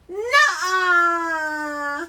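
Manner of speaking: high, loud drawn-out refusal; defiant nuh-uh. Retold or imitated. Child on the pew defying the preacher, loud high shout. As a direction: shout down the preacher, hand on hip.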